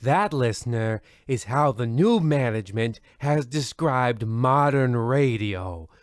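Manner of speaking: smooth radio host voice, even and unhurried; radio announcer. Acted. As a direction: welcome the listeners like an old radio host. Radio host opening the show.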